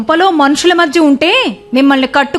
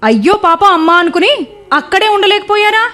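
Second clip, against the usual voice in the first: higher, rising, sharp sarcastic taunt; angry taunt; 5 semitones higher than usual. Acted. Wife mocking her grieving husband, angry and higher. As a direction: throw it back at him with scorn.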